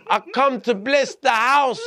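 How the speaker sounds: cracking up mid-quote, slowed; can't keep a straight face; quoting while breaking into laughter; laughing through quote. Retold or imitated. Retelling the absurd priest excuse.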